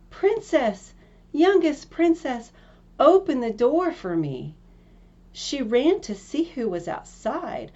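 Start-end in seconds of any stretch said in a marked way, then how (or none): 0.1-4.5 high, loud call through the door; frog crying out. Acted. Frog at the door calling the princess, loud and high. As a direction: call out to her behind the door. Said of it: "it knocked at the door and cried".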